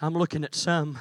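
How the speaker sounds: very soft and low, intimate; dropping to a near hush. Real, not acted. Preacher quietly turning to the young people, hushed. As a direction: pull right back and lean in close.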